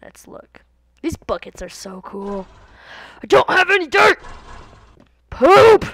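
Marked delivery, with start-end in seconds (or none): 3.2-4.2 high, loud squeal; excited shout. Real, not acted. Gamer squealing at finding no dirt. Excited Minecraft commentary outburst. 5.3-5.8 high, loud yelp; loud blurt. Real, not acted. Gamer yelping a silly word. Outburst while playing.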